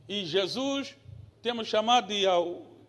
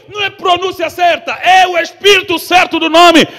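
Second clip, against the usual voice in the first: shouted climax; 8 semitones higher, 17 dB louder than usual. Acted. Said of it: "preacher climaxes".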